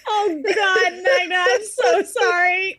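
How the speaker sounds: helpless giggly apology; laughing apology. Real, not acted. Player says sorry to Magna after the teasing, laughing apology. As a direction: apologize while cracking up.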